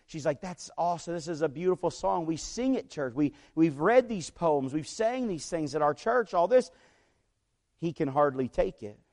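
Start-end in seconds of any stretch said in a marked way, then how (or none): 0.4-6.7 imitating a mildly excited fan; starstruck excitement. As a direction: gush a little, as a starstruck admirer retold. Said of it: "She's excited".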